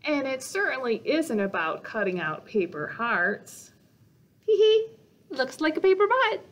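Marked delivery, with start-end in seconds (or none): 4.4-6.4 high, loud, fast giggly joke; giggling tease. Acted. Character giggling at the paper heart again. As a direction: snicker it like a naughty kid.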